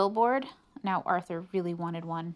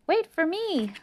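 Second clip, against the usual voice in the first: high, loud call; 10 semitones higher, 6 dB louder than usual. A narrator's reading. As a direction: call after him, hurrying. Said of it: "said D W".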